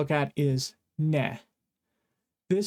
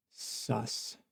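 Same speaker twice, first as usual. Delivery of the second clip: suspicious; 6 semitones lower, 11 dB quieter than usual. Acted. Teacher eyes Puppy Kohai suspiciously.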